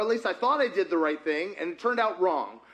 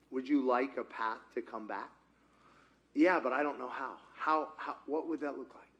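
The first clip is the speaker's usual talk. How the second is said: quiet inner dialogue; 4 semitones lower, 7 dB quieter than usual. Retold or imitated. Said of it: "acted dialogue with God".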